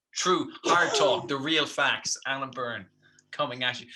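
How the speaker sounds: lightly hammed-up TV host sign-on; mock news anchor. Pretend alternative news host introducing his show, mock grave. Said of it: "alternative news station".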